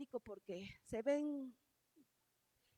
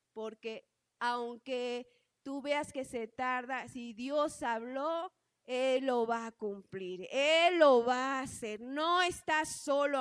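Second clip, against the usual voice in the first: slow and firm, building louder; the Lord's promise; 3 semitones lower, 4 dB louder, slower than usual. Retold or imitated. The Lord promising the mother, slow and rising to firm. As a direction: give each promise weight, slowly. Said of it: "me dice el Señor".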